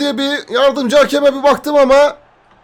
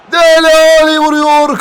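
excited commentator; 4 semitones higher, 4 dB louder than usual. Real, not acted. Shot on goal called out.

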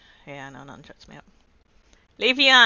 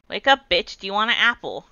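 loud wake-up call; 3 semitones higher, 11 dB louder than usual. Real, not acted. Shouting at a sleeping Pokemon.

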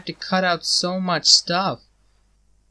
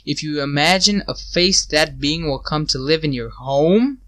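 reading eerie instructions. Acted. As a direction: read the rules like a creepy ritual.

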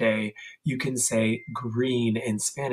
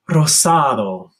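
smelling a rose; 6 dB louder than usual. Shown as a demonstration. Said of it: "you're going to smell it. Say".

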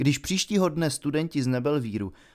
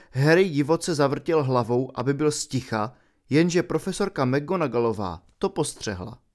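usual speaking voice

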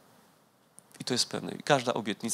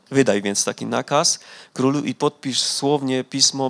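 steady, louder reading of the Bible passage; scripture reading; 4 dB louder than usual. Acted. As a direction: read the chapter out to the congregation. Reads the Bible chapter aloud. (głośne, uroczyste czytanie Pisma)

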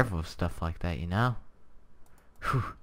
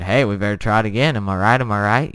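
mock cheerful; 9 dB louder than usual. Mock self-quote, upbeat.

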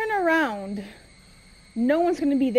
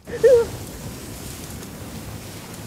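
combative laugh; 10 semitones higher than usual. Real, not acted. Laughing while fighting enemy.

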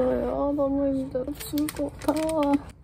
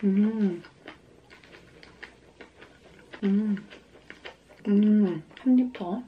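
chewing while humming; eating a salad bite; mouth full; slower than usual. Real, not acted. Seen 4: Closed mouth, puffed cheeks chewing; takes another forkful at 7.5s.

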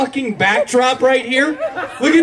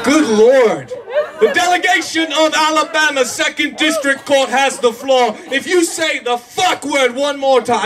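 mock-British official calling on a delegation; British accent. Comic playing a court official, British accent. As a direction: slip into an unplanned British accent. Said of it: "I don't know why I'm British now".

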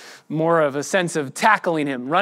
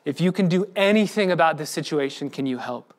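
begging prayer. Retold or imitated. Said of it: "you're just begging".

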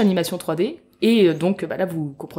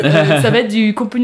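botched start, laughing; 6 dB louder than usual. Shown as a demonstration. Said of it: "j'ai pas réussi mon entrée".

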